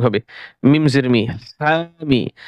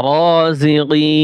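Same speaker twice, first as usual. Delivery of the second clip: slow drawn-out reading; much slower than usual. Shown as a demonstration. Teacher to students, showing how to blend the syllables, slow chanted reading. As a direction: stretch every syllable, very slow and sung out. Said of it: "বানান করে পড়বেন".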